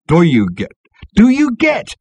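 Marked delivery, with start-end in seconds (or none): 1.2-2.0 very high, loud shout of discovery; thrilled, high-pitched yell; excited shout. A narrator's reading. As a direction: shout it as the words suddenly make sense. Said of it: "shouted Ford".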